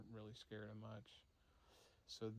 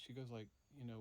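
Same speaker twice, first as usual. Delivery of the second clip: ordinary delivery, nothing marked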